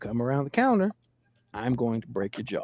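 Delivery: mock even, matter-of-fact, low, calm and quick. Retelling his reply to a woman threatening to come around the counter: retelling a calm threat. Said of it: "And I said calmly".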